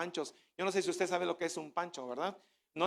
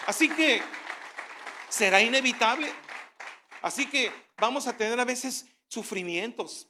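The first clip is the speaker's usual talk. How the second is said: louder, proclaiming "hay esperanza"; fervent preaching; 2 semitones higher, 5 dB louder than usual. Acted. Preacher proclaiming hope to the congregation, loud. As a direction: preach it with full force.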